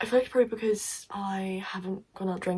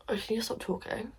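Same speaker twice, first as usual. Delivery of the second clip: worn-out, breathy whisper; tired whisper; 3 semitones higher, 6 dB quieter than usual. Real, not acted. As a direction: whisper it, too tired to talk. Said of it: "I'm actually too tired to keep talking".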